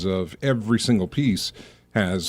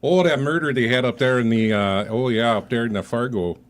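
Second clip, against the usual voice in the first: lightly put-on Minnesota accent; folksy Minnesota Fargo accent. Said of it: "I could just keep talking like that".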